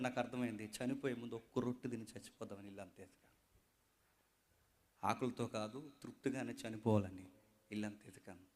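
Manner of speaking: low, soft, broken mother's lament; grieving widow. Acted. Widow telling the prophet her son will die, grieving softly. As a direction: pour out a starving mother's grief. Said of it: "ఓపెన్గా చెప్తుంది ఆ తల్లి".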